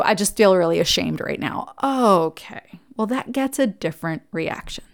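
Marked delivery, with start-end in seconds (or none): 0.0-1.7 soft sincere admission. Retold or imitated. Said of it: "he would be able to get to".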